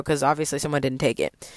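breathy whispered aside, dropped low. Real, not acted. To viewers about zero grade, whispered aside. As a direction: tuck it in as a secret aside.

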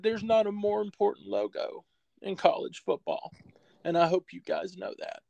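put-on a touch of a quavering, tearful old coach; retold tearful coach. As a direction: hold back tears as you quote him. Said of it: "he fought back tears".

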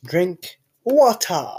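drawn-out, slow martial-arts star impression; Bruce Lee. Joker quoting a film star to co-host, slow impression. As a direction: stretch it out slowly like a kung fu master. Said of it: "As Bruce Lee would say".

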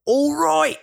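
high, loud mock double-take; mock surprised voice. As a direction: act out spotting your twin in a mirror. Mimicking someone seeing a lookalike.

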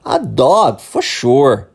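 "A dog, for sure" with a firm falling finish; falling intonation. Shown as a demonstration. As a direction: model "for sure" clearly, tune falling. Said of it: "eu repito pra você repetir".

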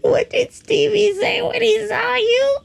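high-pitched, squeaking through real laughter; can barely get the words out for laughing. Real, not acted. Host repeating his own joke to listeners, laughing hard.

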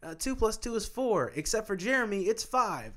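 lightly voiced sly teacher. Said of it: "I'll be like".

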